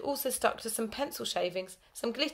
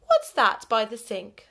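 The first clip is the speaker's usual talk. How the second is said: sharp question; 2 semitones higher, 9 dB louder, slower than usual. Acted. Teacher spots something.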